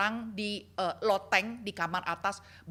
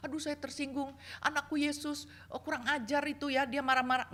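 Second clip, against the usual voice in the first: mock offended; 5 semitones higher than usual. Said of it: "bukan orang yang gampang tersinggung".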